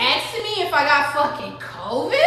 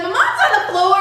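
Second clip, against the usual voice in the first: retold scream; 5 semitones higher, 4 dB louder than usual. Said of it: "she's, like, screaming".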